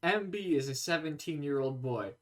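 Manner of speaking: slow, soft medical narrator voice; ominous documentary narrator, slowed down; Chubby Emu parody. Pretend.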